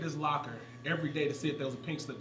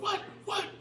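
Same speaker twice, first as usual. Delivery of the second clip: taunting challenge; 3 dB quieter than usual. Retold or imitated. Ex-player imitating a lifter taunting his teammate, high-pitched. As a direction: mimic a cocky lifter egging someone on. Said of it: "starts yelling and cussing Porter out".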